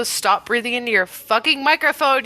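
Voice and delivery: usual speaking voice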